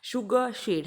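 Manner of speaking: शुगर शेड with a clear sh; teacher models शुगर शेड; modelled sh words. Shown as a demonstration. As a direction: say शुगर शेड slowly, sh stressed. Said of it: "बोलो उसको".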